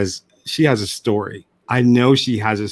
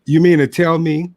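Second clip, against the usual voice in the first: mock scolding grandfather; 5 semitones higher than usual. Grandfather scolding in retold story.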